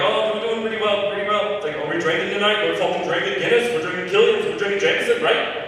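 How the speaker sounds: high-pitched mocking chorus of partygoers; mocking group. Roommates mockingly quiz the fake Irishman.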